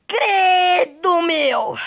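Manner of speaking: high startled yelp; startled shout. Real, not acted. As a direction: jump back with a shout. Shocked by a weird player.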